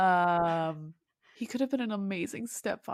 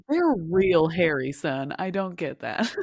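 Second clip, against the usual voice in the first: lightly voiced gruff dad; 4 semitones lower, 5 dB louder than usual. Father judges dwarves.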